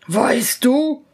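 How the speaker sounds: menacing, forceful ghost; terrible spirit voice. Acted. Freed spirit towering over student, terrible voice. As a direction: confront them as a fearsome giant spirit. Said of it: "rief er mit einer fürchterlichen Stimme".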